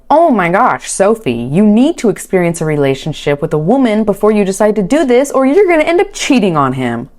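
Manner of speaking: lightly hammed-up motherly urging; retold mom's warning. Retelling mom's urgent warning to daughter.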